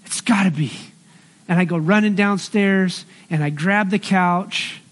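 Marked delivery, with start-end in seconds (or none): 0.0-0.7 retold flash of insight; sudden realization. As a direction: catch the idea all at once, then settle. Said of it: "I was like".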